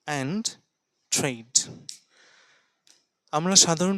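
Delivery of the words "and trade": quiet "and", pause, then "trade" falling; pause before and trade. Shown as a demonstration. Teacher shows students the pause before "and trade". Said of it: "pause নেওয়া উচিত".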